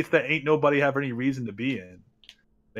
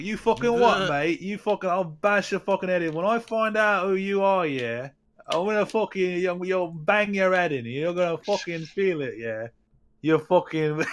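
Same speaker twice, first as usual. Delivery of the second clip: mock Cockney threat; 3 semitones higher than usual. Mocking a streamer who fakes a Cockney accent. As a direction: fake Cockney accent, a touch higher. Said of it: "He's a Cockney".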